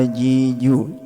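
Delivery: "ji, ju" with long, level vowels; demonstrating "ji, ju" without any hiss; letter drill. Shown as a demonstration. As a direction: hold each syllable of "ji, ju" evenly. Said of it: "jim itu enggak boleh desis".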